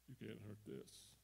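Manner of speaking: low, soft mock-tough voice, partly unvoiced; mock tough guy. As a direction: play the proud man hiding the hurt. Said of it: "because you don't want to admit".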